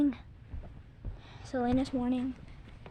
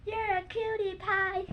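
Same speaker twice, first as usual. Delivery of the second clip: slow cooing cutie pie; 4 semitones higher, 3 dB quieter, slower than usual. Shown as a demonstration. Kid demonstrating the cutie pie fall for viewers. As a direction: coo it while falling. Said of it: "it goes like that".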